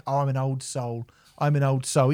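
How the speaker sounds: mocking old soul. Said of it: "these cunts who are like".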